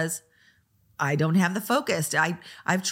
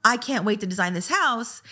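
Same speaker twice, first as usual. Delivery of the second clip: mock excited designer; 4 semitones higher than usual. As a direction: imitate an over-eager designer gushing. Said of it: "you got an excited".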